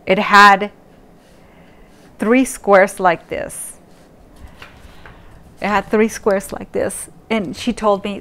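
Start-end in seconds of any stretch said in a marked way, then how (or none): 0.1-3.8 slow, deliberate description; slow, drawn-out. Shown as a demonstration. To viewers, describing the eye test slowly. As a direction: spell it out slowly. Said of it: "So I'm gonna do it twice".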